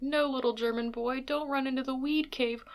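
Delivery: high, hammed-up mock German accent; funny German voice. Cohost spoofing the opera's German voices, hammed-up German accent. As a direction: ham up a silly German storybook voice. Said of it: "do they do funny German voices".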